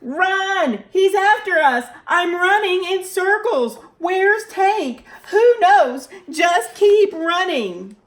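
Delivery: high, loud frantic cries; panicked. Acted. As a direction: run around screaming in panic. Panicked flight from hamster.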